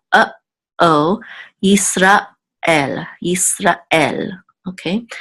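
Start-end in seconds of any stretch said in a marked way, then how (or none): 1.6-4.3 Yisrael with a small break between Ra and El; careful Hebrew Yisrael. Shown as a demonstration. Teacher modeling the pause for students. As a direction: keep Ra and El of Yisrael apart. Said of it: "if you heard the pause".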